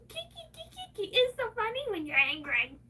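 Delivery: a light high sing-song taunt; mild mock of a man teasing her. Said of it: "they sit there going".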